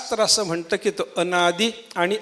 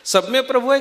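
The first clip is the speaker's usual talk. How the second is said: mock donkey bray; 4 semitones higher than usual. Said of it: "कमी असतं".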